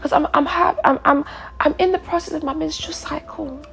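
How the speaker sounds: high, put-on British apology; put-on British accent. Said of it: "a different accent".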